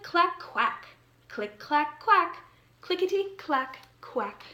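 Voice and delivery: put-on lively storybook reading for young listeners; reading to children. A narrator's reading. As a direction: read the picture book aloud to a class. Reads picture book to children.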